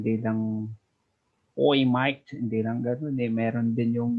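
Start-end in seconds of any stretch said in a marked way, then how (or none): 1.5-2.3 louder mock Aussie greeting; Aussie accent. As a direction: imitate a stereotypical Australian accent lightly. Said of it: "hindi lang naman Aussie accent". (ginagayang Aussie accent)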